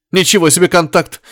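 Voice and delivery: high, sarcastic outburst; flaring up. A narrator's reading. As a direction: flare up with scorn. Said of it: "вновь взвился Горишвили".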